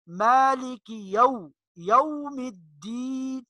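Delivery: Arabic pronunciation, jaum with an aw; slow chanted Arabic-accent recitation. Shown as a demonstration. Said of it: "اس کو ہم نے عربی لہجے میں".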